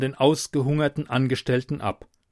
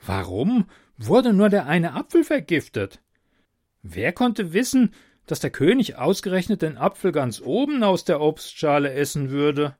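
puzzled jester; 4 semitones higher than usual. Acted. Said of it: "der Hofnarr".

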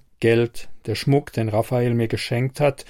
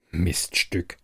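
annoyed insult; 6 semitones lower, 5 dB quieter than usual. A narrator's reading. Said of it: "sage ich schließlich verärgert".

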